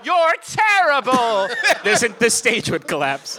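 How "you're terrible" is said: yelled. Pretend. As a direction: bellow it slowly at the stage. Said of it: "If one of you yelled".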